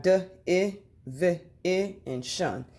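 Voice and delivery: "d, I, v, I" as single short sounds, then "shun"; sounded out. Shown as a demonstration. Teacher helping pupils spell, "d, I, v, I, and shun" sound by sound. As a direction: separate each sound in "d, I, v, I, and shun". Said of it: "this will help you spell the word".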